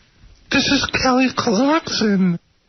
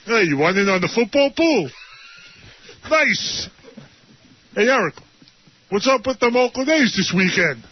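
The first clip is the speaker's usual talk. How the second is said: KC impression; 2 semitones lower than usual. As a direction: drop the voice, play a laid-back guy. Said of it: "It's K C".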